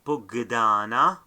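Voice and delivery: pugdana with a hard g before the d. Shown as a demonstration. Teacher reading the word to learners, pugdana with hard g. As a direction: sound the gamal as g in pugdana. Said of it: "the sounds here is a gamal".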